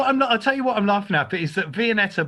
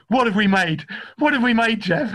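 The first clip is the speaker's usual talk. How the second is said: higher, brightly expectant mock questioning; pleased; 5 semitones higher, 3 dB louder than usual. Teller imitating the woman quizzing Jeff after an hour, pleased. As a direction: prompt him proudly for the answer. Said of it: "she's really pleased, this woman".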